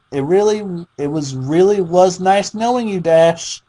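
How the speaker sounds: high, sugary voice with a giggle; creepy sweet Pinkie. Acted. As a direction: sound cheerfully disappointed, sweetly unhinged. Pinkie talks to dying Dash.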